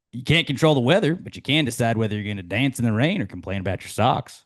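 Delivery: upbeat coachy quote delivery; Ted Lasso quote. Acted. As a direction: read it like a cheery coach.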